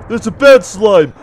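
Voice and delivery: worried, emphatic warning; alarmed but contained; mild alarm. Real, not acted. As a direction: point out the danger, not yet shouting. First alarmed remark on slime.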